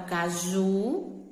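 "caju" said slowly with a long JU; stress on final syllable. Shown as a demonstration. Teacher summing up the example, JU stressed in "caju". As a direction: stretch the JU ending of "caju". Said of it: "Sílaba mais forte".

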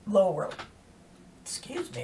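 hiccuping mid-sentence; interrupted by a hiccup. Real, not acted. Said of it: "I've got the hiccups".

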